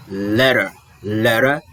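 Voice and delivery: "letter" with an American flapped T, "ledder"; American English. Shown as a demonstration. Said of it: "falando em inglês americano".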